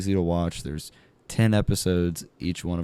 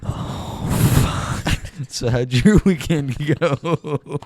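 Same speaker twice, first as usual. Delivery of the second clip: high, slow, loud put-on voice; silly high voice; 8 semitones higher, 6 dB louder, much slower than usual. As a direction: ask it in a goofy voice.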